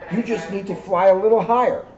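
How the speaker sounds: encouraging. Acted. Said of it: "encouraged the moon".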